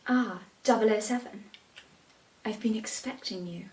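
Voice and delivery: lightly voiced Bond villain greeting; a hint of a suave villain. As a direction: purr it like a film villain welcoming Bond. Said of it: "think they're in James Bond".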